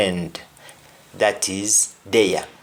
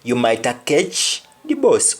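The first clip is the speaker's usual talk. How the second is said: Jamaican Patois, "bus" said as "boss". Shown as a demonstration. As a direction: say it in Jamaican Patois, "catch" as "ketch". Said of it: "in Jamaican, when somebody says bus".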